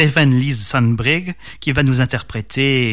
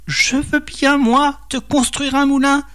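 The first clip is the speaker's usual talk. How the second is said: high-pitched storybook snake voice; hissing serpent; 11 semitones higher than usual. A narrator's reading. Devil as serpent offering a mill, high hissing voice. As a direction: play a sly serpent in a high register. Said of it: "siffla-t-il".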